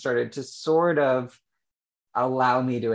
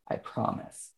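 a hushed, breathy plea to God; barely voiced vow, held back; whispered promise; 7 dB quieter than usual. Praying alone on mom's bed, a whispered promise.

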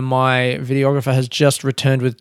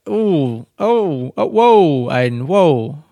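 startled whoa; much slower than usual. Real, not acted. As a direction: catch yourself off guard with a mild oh, whoa. Startled mid-story, exclaims at himself.

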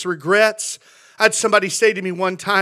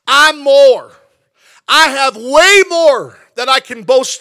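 boastful Paul; 4 semitones higher, 5 dB louder than usual. Acted. Preaching Paul's boast.

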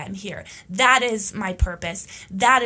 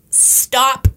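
loud, drawn-out command; one forceful word, much louder; firm acted demand; 3 semitones higher, 9 dB louder than usual. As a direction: call it out as a halt order. Voicing a demand to fellow feminists.

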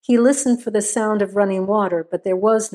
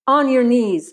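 order; 4 semitones higher than usual. Acted. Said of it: "Maynard ordered".

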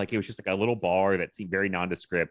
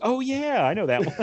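mock delighted; 12 semitones higher, 4 dB louder than usual. Retold recognition reaction.

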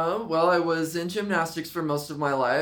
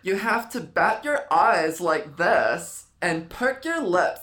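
slow demonstration; much slower than usual. Shown as a demonstration. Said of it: "You know who that's from?".

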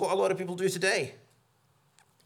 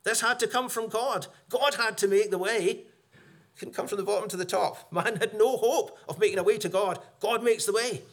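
1 God's voice; 5 semitones higher, 4 dB louder than usual. Acted. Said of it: "it's as if God's saying".

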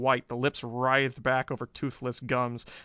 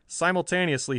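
ordinary delivery, nothing marked

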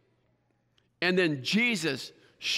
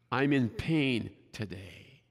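pleading prayer; 5 semitones lower, 3 dB quieter, slower than usual. Retold or imitated. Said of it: "Let me paraphrase that verse".

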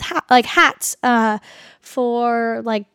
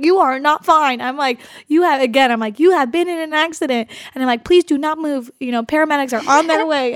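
robotic; 3 semitones higher than usual. Retold or imitated. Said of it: "totally super robotic".

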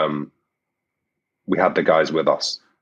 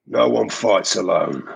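Ghost voice. Acted. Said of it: "Can you say anything in the ghost voice".

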